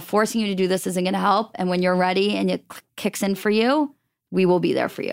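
ordinary talk, nothing marked

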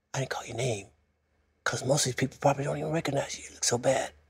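soft, private, close whisper. Retelling what she said on the church steps: imitating someone whispering. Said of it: "She was whispering".

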